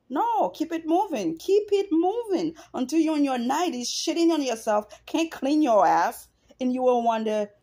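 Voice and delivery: fired-up scolding of an absent father; passionate rant. Real, not acted. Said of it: "I get emotional, I get really passionate".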